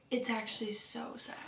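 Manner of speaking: whispered, moved; whispering to viewers about a sad book. Real, not acted. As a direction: breathe it out sadly. Moved while reading the book.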